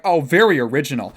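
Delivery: fast, snooty sarcasm; sarcastic match. Retold or imitated. Mocking a woman's reply on Tinder, sarcastic. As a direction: roll your eyes at a plain hi. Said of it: "they're like".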